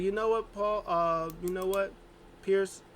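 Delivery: mock excited persuasion; hyped-up pitch. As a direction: sell it like a fired-up hype man. Retelling Paul's hyped pitch.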